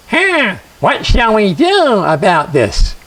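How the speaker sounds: slow, eerie wondering; a second spirit pondering, drawn out; strange spirit voice. A narrator's reading. Spirit asking the others what to do, slow and eerie. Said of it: "none of them sounded quite like people".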